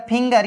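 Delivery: "फिंगर" with g as in go; hard G. Shown as a demonstration. Teacher giving learners another exception, "फिंगर" with hard g. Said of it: "लेकिन हो रहा है ग".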